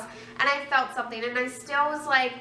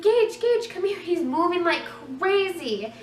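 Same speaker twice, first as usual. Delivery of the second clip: replaying the moment she shouted for Gage; excited call; 5 semitones higher than usual. Retelling how she called her husband over when the baby kicked, excited shout. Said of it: "I was like".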